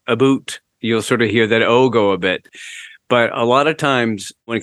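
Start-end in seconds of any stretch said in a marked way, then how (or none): 0.1-0.6 Canadian accent. Shown as a demonstration. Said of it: "So they'll do like".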